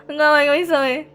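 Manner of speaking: loud, high, frantic yelling with a laugh; frantic shouting. Real, not acted. Gamer yells at the TV monster, frantic loud shouting. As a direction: yell at the game in a panic.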